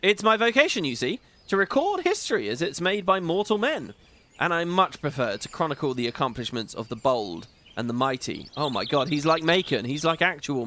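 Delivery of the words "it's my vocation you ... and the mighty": a grand, courtly spirit who is delighted by the show; theatrical NPC voice. Acted. Streamer voicing the disembodied NPC to viewers, lightly grand and courtly. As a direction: play it as a pompous, pleased disembodied voice. Reads NPC dialogue aloud.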